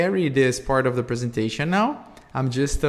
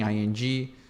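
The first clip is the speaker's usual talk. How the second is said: each letter of "I N G" said separately; spelled out letter by letter; 4 semitones lower, 4 dB quieter than usual. Shown as a demonstration. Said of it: "spelling out the ending".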